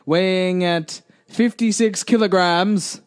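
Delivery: ring announcer. Acted. Boxing announcer intro.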